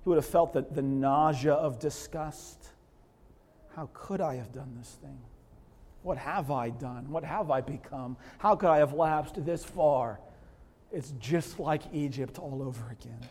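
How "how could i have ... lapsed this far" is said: remorseful murmur. Acted. Abraham's remorse voiced.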